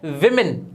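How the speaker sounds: विमेन with short i vowels, "WIM-in"; short "i" in both halves of विमेन; correct pronunciation. Shown as a demonstration. Teacher models for learners, विमेन said "wim-in". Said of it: "ये होता है".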